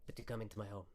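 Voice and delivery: lightly voiced wizard, compliment then reproach; reasoning wizard. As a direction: patiently count off favours as the wizard. Game master voices the wizard.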